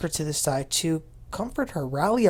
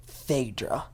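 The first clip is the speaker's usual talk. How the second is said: whisper; 5 semitones lower, 7 dB quieter than usual. Retold or imitated. Naming the accused in a hush.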